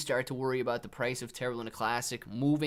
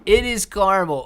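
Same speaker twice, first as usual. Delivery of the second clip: "It" punched loud and high, "caramel" as KAR-mel; stress on IT; 5 semitones higher, 12 dB louder than usual. Shown as a demonstration. Arguing with chat, hits "It" loud and high. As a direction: hit "It" hard, say KAR-mel. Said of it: "Nobody says that".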